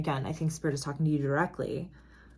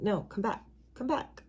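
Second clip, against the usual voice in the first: knight pulling back; 5 semitones higher, 4 dB quieter than usual. Retold or imitated.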